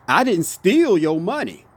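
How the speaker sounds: steal punched, falling after; stress on steal. Shown as a demonstration. Showing viewers another meaning, stress on steal. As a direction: lean on steal, as if something else was done. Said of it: "Okay, another way".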